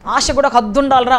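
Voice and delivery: mild mock ridicule from the crowd; mocking scoff. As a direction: laugh off someone's big dream. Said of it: "అంటారు".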